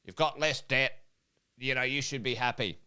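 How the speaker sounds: quiet, measured pat on the back; false reassurance. Acted. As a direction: play someone soothing with hollow praise. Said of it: "false conversation going on like".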